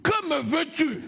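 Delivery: hint of a demon's cry; lightly voiced demon asking; possessed. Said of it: "écoute la voix d'un démon".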